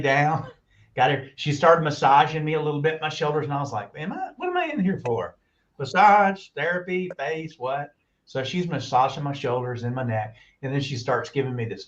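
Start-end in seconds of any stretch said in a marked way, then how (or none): 4.0-7.9 bewildered question. Retold or imitated. Retold confusion on massage table.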